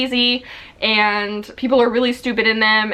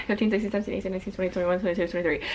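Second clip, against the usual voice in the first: counting under breath; 3 semitones lower, 8 dB quieter, much faster than usual. Real, not acted.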